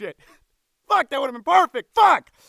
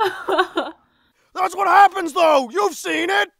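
higher, exclaimed protest; acted outcry; 4 semitones higher, much slower than usual. Actor in the booth recording a protest, exclaimed. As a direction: cry it out in emphatic bursts.

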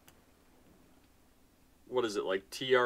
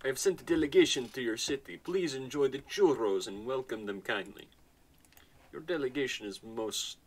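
put-on Russian accent; 4 semitones higher than usual. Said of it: "Why did it come out Russian?".

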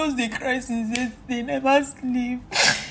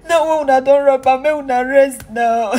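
angry; 9 dB louder than usual. Real, not acted. Pleading angrily with the robbers.

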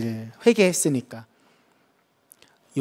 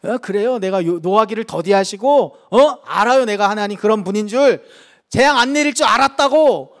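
mock angry retort; 2 semitones higher than usual. Jonah talking back to God, sarcastically angry. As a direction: scoff at God in a peeved, rising tone. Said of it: "화내면서".

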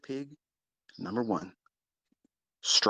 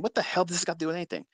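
imitated listener; 6 semitones higher, much faster than usual. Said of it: "you're probably saying".

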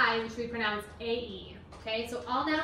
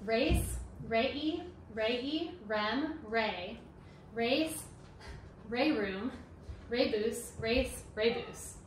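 slow recitation; much slower than usual. Shown as a demonstration. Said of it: "I'm gonna read it first while you listen".

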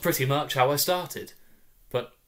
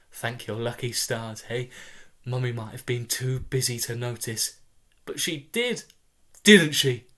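cooing mother. Acted. Mother cuddling her rescued toddler, light cooing baby talk. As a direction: lay the comfort on thick, a light coo.

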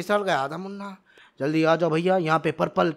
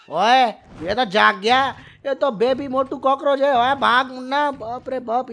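higher and louder, alarmed yell; yelling at Munna to run from the cockroach; panicked shout; 5 semitones higher, 5 dB louder than usual. Acted. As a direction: shout the warning in a fright. Giant cockroach wakes, they flee.

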